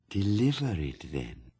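Death, calm and cold. Acted. Death speaks.

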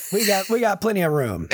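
hammed-up Southern pitchman; gravelly Southern huckster. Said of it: "gravelly Southern accent man".

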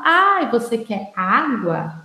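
slow, gentle "água" said right; gentle correct repeat. Shown as a demonstration. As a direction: model the word kindly, slowly. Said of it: "a gente repete do jeito certo".

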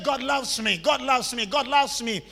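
firm repeated affirmation; preacher modeling a daily affirmation; loud declaration. Shown as a demonstration. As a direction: say it like you mean it. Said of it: "get up every day and say".

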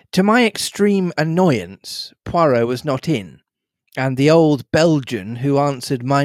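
slow, measured book reading; story narration. Acted. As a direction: read it like an audiobook. Reads the chapter aloud.

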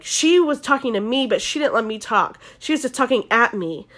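mildly worked-up complaint; a touch of mock agitation; retold freaking out. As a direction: mimic a guy griping indignantly. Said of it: "he's, like, freaking out".

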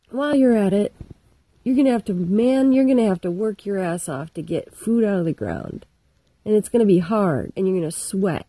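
loud, stern curse; stern God decree. Retold or imitated. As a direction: pronounce the sentence harshly. God cursing Adam.

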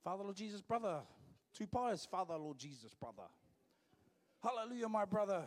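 high, loud hammed-up churchy gushing; hammed-up holy-roller greeting; mock over-religious voice. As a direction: parody a pious believer who drips religion. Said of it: "no one talks like that in New Zealand".

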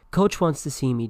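mild call to someone below; calling back. Acted. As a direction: call it back matter-of-factly. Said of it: "Johnny called back".

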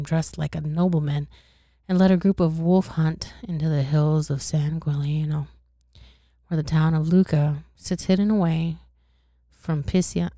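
lightly acted first-person tragic tale; measured read-aloud storytelling; story narration. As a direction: tell the grim story steadily to a listener. Reads the dream tale aloud.

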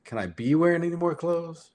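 high, breathy whispered joke; a high playful whisper; mock whisper. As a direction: whisper it like a sheepish plea. Joking about sweaty costume.

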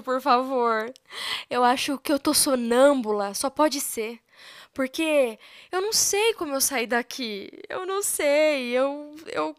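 crying. Acted. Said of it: "chorando muito, responderá".

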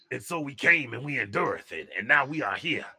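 a hint of a country preacher hollering; mock church call to praise. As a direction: lightly preach it to the congregation. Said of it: "country preachers just make words up".

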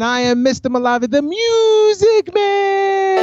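announcer sign-off. Acted. Signature sign-off.

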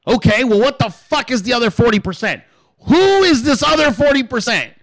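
lightly hammed-up angry billionaire; irate boss. Acted boss demanding answers on call.

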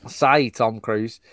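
slow, dodgy Aussie attempt; bad Australian accent. Bartender addresses Tom Cruise in the scene, bad Australian accent. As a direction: attempt Australian and get it wrong. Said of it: "That's exceptionally bad".

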